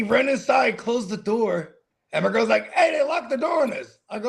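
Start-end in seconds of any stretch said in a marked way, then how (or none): 2.7-4.0 girlfriend's higher-pitched mock alarm; retold alarm. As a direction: call it out, imitating an alarmed girlfriend. Retelling girlfriend calling out the problem.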